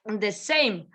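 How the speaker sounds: normal talking voice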